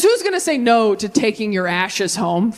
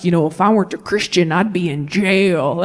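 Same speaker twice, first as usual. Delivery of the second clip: lightly voiced dad; 4 semitones lower than usual. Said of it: "My dad growing up was like".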